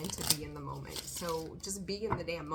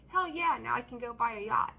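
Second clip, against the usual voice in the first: mock excited cheer; 3 semitones higher, 4 dB louder than usual. Acting a lottery winner.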